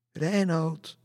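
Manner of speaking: high, loud drawn-out call; crying out. A narrator's reading. White-veiled lady calls for her lost lover, crying out. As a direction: call out for a lost beloved from afar. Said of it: "riep ze uit".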